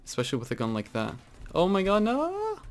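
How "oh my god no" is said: dismayed wail. Real, not acted. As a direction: pitch soaring into a wail. Dismay at play in game.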